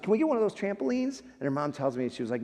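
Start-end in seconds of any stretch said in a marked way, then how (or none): 0.0-1.2 pitched up high, imitating an eager five-year-old; little girl asking. Retelling a sick girl asking her parents, child voice. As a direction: lightly voice a child begging for a trampoline. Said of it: "and she's like".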